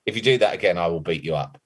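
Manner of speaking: understated, matter-of-fact threat; calm threat. Retold or imitated. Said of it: "Just like".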